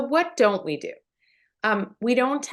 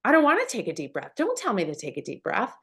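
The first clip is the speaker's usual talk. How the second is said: put-on annoyed teen; faster than usual. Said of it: "what are they gonna say to you?".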